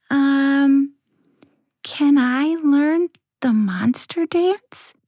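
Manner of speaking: put-on high, shy little girl asking. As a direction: ask eagerly like a small child. Sarah asks monsters.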